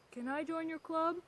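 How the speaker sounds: tortoise character. Retold or imitated. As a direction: ask in a high little character voice.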